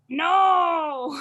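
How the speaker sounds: sudden high yelp of "No!"; mock shout. Mocking a man in bed, a high yelped No. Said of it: "your dick just goes like".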